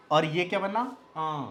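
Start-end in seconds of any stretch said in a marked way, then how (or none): 1.2-1.4 आ sounded through the nose; nasalized आ; nasal vowel. Shown as a demonstration. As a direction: send आ up into the nose. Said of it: "नाक में जाके".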